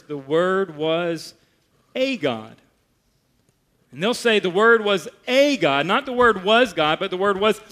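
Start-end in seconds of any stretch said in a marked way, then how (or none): 0.0-2.6 "a" drawn out slowly before "God"; slow mock reading. Pastor quoting the doorstep translation, slow and pointed. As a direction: read their version deliberately. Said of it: "They'll translate this verse".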